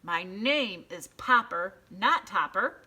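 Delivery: loud, slow correction; annoyed shout over the phone. A narrator's reading. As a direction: shout the name back down the line. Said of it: "shouted Mister Popper".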